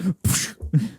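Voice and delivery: sharp voiceless puff of air; imitated whoosh. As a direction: mimic a kick with a puff. Imitates sound of the kicked ball.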